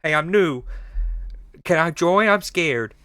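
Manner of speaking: mock meek asking to join; imitating a nervous new clan member; timid newcomer. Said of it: "I'm gonna try to imitate the tone".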